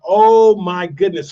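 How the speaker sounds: retold dismay. Retold shock at friend's injury.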